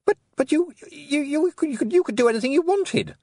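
high, stammering outburst; bursting out. A narrator's reading. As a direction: blurt it out in disbelief. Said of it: "Roland burst out".

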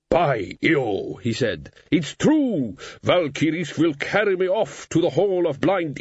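slow bewildered then cheered; gruff barbarian realising he's dead; dazed warrior brightening. Acted.

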